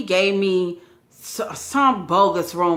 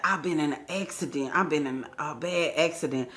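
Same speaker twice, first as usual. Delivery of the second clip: mock weak voice; 4 semitones lower, 9 dB quieter than usual. Man claims bad accident.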